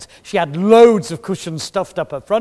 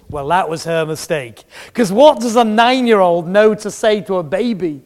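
ordinary talk

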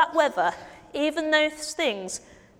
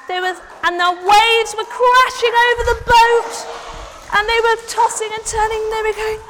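scared; 9 semitones higher, 7 dB louder than usual. Acted. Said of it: "Can you be scared?".

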